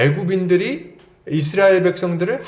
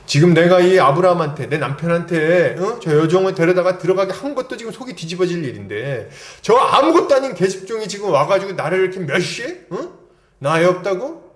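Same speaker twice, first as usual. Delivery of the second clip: higher, indignant wife confronting her husband; acted indignant outburst; 3 semitones higher than usual. Sarah vents to her husband about the maid's contempt, acted indignation. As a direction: act out wounded outrage with sharp questions. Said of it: "그동안의 원통함이 이때 막 폭발하는 것 같아요".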